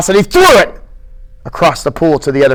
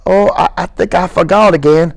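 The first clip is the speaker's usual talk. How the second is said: embarrassed; 3 semitones higher than usual. Acted. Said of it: "said in embarrassment".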